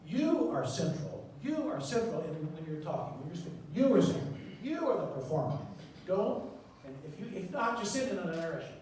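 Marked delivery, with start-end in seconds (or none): 0.1-2.2 slow, deliberate "You are central"; "You" stressed, slow and weighty; slow emphasis. Shown as a demonstration. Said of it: "speak more loudly and more slowly". 3.7-5.6 loud emphasis. Shown as a demonstration. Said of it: "more loudly and more slowly".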